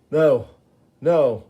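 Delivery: pleading outcry; desperate shout. Acted. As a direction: yell to stop him walking away. Gibbon refuses to be ignored.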